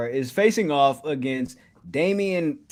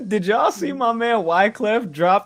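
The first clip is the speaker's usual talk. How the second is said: laughing; 5 semitones higher than usual. Real, not acted. Laughing while asking.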